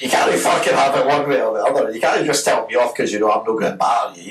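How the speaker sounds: indignant complaint to the prefect; mock angry rant. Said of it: "I'm like".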